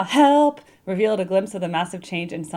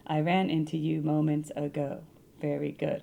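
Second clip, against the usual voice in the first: slow, softer, read as a poem; slow haiku reading; 3 semitones lower, 5 dB quieter than usual. Shown as a demonstration. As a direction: savour it like a haiku. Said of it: "Are these haikus?".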